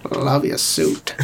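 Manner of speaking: slow, breathy, unvoiced creepy purr; Hannibal Lecter impression. Quoting Hannibal's parting line to the senator, whispered and slow. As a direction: savour each word like a polite predator. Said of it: "not a terrible impression".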